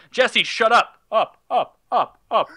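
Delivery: put-on a teacher on acid babbling at a kid; tripping teacher. Imagining a drugged teacher yelling at a student, mock.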